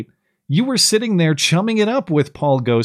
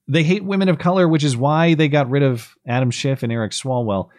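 sarcastic. Retold or imitated. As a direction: toss it off sarcastically. Third sarcastic repetition.

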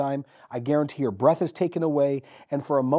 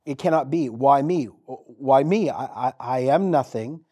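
a lightly voiced, louder, pleading Mary; 4 dB louder than usual. Preacher voices Mary protesting she is nothing, pleading. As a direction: beg to know why me. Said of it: "What she says".

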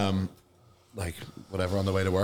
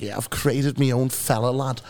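put-on Scouse accent. Taxi driver describing his game character, imitated Scouse accent. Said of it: "Is that a bad Scouse accent".

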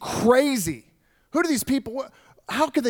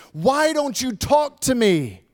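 higher, slow, pressing demand; 6 semitones higher, slower than usual. Acted. Pilate demanding Jesus answer him, higher and insistent. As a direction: push him for an answer, slowly. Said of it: "Pilate demanded".

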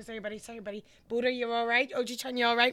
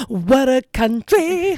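surprised gasp; 3 semitones higher, 8 dB louder, much slower than usual. Real, not acted. Gasp at the water park name.

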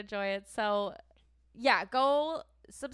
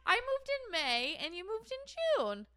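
indignant correction; 4 dB louder than usual. Real, not acted. Corrects the co-host.

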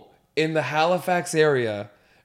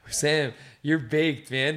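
stoned; much slower than usual. Real, not acted. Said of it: "I'm baked right now".

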